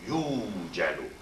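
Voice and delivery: "yujalu" with first syllable one long oo; slow "yujalu", said as yoo-ja-lu; long smooth u. Shown as a demonstration. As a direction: stretch the "yu" in "yujalu" as a pure long vowel, no w glide. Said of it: "not yujalu, but yujalu".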